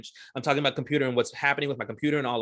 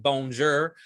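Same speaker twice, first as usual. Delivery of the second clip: French said with an American accent; mock a heavy American accent in French. Shown as a demonstration. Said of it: "American accent. Like, I don't just say".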